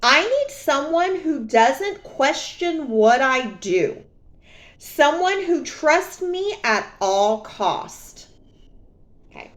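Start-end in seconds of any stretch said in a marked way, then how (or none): 0.0-8.3 slow, a little higher, lightly voiced ex; mock ex-boyfriend. Quoting her cheating ex, slow and lightly mocking. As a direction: drawl out his words mockingly. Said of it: "This is what he says, verbatim".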